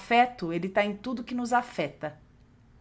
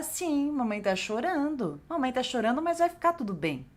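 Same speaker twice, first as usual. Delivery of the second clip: reassuring mother; 4 semitones higher than usual. Shown as a demonstration. Mother comforting her child while crying, gently. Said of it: "Então, nessa hora".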